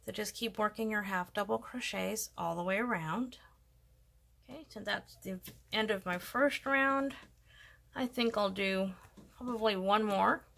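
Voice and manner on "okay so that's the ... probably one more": talking with something in mouth; mouth full. Real, not acted. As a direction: speak around an object held in the mouth. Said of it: "I have the stitch marker in my mouth".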